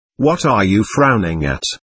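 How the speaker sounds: plain reading voice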